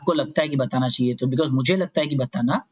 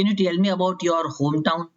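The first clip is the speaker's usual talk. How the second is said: examiner's question; much slower than usual. Shown as a demonstration. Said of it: "ऐसा पूछ सकते हैं कि".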